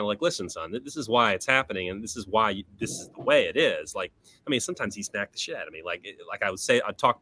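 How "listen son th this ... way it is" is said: low, soft opening, then near-usual voice; soft fatherly explaining. Retold or imitated. Father explaining to his son later on, mildly soft. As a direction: lightly imitate a dad calmly reasoning. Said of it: "more soft discussion".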